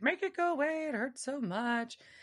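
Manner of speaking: high, drawn-out, mock traumatized, freaked-out yelling. Retelling what a confused, bloody woman kept yelling: imitating someone yelling. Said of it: "she's just yelling, like".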